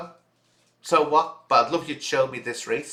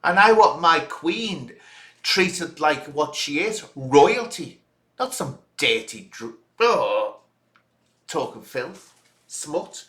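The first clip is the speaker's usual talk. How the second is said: mock husband standing up for his wife, higher and firmer; a hint of an indignant husband; imagined protective husband; 4 semitones higher, slower than usual. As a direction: play the offended husband defending his queen. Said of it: "why aren't your husband stepping in here and saying".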